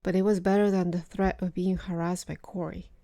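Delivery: measured, articulate storytelling read; story narration. A narrator's reading. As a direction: narrate a personal suspense story with deliberate pauses. Reads a personal story aloud.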